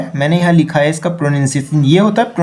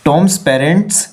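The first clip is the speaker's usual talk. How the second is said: very slow, word by word; slow read-aloud; much slower than usual. Shown as a demonstration. Teacher rereading the corrected sentence, very slowly.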